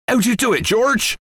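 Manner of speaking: high, amazed asking; excited question. A narrator's reading. Excited father questions his son.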